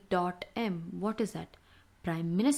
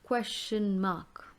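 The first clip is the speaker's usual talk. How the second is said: model the term; slower than usual. Shown as a demonstration. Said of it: "teacher models term".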